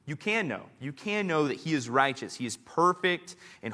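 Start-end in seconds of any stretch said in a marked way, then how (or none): 0.0-2.4 can leaned on, each time; you CAN know, weight on can; stress on can. Shown as a demonstration. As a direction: press the word can. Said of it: "And notice it says".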